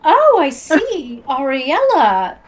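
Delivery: fond queen's greeting. Acted. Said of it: "she's like".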